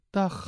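DAG with a hard, scraping final G. Shown as a demonstration. Joking that voice changers cannot harden a Brabander's soft G, hard G on DAG. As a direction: end DAG on a harsh throaty G. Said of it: "dat ik een zacht G heb".

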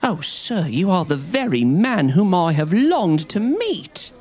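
high, eager pleading cry. A narrator's reading. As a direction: reach out to him with hope. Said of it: "cried the little fellow".

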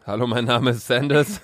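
nachgeäffte Begrüßung, leicht spöttisch; mocking imitation. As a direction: copy her greeting in a teasing tone. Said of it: "Klaust du jetzt meine Begrüßung?". (spöttisch nachgeäfft)

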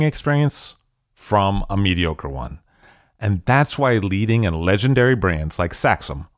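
polished, measured podcast ad delivery; scripted host-read promo; sponsor ad read. Acted. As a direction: sell the sponsor with crisp, deliberate emphasis.

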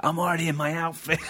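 a lightly voiced excited child; childlike. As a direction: sound like a kid before a party. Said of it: "Like a child".

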